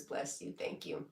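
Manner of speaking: playful ASMR whisper; breathy hushed thank-you. Pretend. Whispers after ASMR chat.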